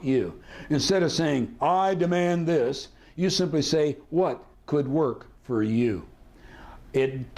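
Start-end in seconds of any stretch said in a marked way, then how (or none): 1.6-2.9 slow, higher-pitched insistence; firm demand. Shown as a demonstration. Hard demand contrasted with soft phrase. 4.1-6.0 slow, gently put question; soft phrase. Shown as a demonstration. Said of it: "it's a very soft phrase".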